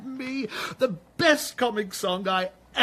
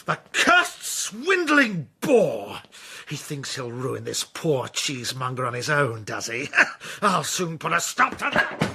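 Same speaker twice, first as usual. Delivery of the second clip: bitter scheming anger; 5 semitones lower than usual. Acted. Captain fumes over Blewett to his servant, seething. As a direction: spit out the insult then plot. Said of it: "when he talked in this style".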